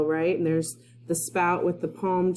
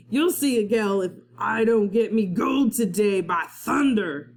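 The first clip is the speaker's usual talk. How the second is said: shouted; 3 semitones higher than usual. Acted. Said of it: "Captain Bones shouted".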